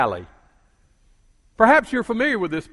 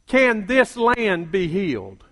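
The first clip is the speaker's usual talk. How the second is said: slow, lower, weighty "Can this land be healed?"; slow low paraphrase; 4 semitones lower, 3 dB quieter than usual. Shown as a demonstration. Preacher paraphrasing God's question, slow and low. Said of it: "let me paraphrase that another way".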